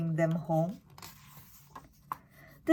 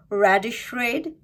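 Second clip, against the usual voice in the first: cheering; 3 semitones higher, 3 dB louder than usual. A narrator's reading. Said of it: "cheered Lily and Benjamin".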